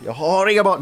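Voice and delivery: high, loud mock-angry outburst; Börje Ahlstedt. Comedian recalling his Börje Ahlstedt sketch, mock-furious yell. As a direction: yell it in hammed-up rage. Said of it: "Det var i Börje Ahlstedt".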